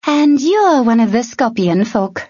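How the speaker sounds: high, manic grin; gleeful mad grin; grinning madly. A narrator's reading. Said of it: "grinning madly".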